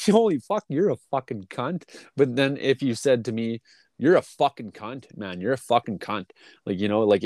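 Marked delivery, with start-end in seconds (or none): 0.1-1.8 friendly insult. Shown as a demonstration. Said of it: "it changes from the way you hear it". 4.0-6.3 flat, cold, meant for real; mean insult. Shown as a demonstration. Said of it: "it changes from the way you hear it".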